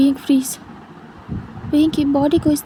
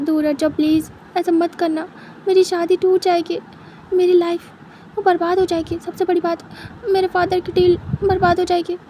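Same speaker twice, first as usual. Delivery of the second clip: anxious pleading; 3 semitones higher than usual. Acted. Wing pleading about his wedding.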